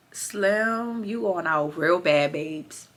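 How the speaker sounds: hushed pity whisper; soft whisper. Real, not acted. Vlogger pitying Slim, soft whisper. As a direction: let it die to a whisper.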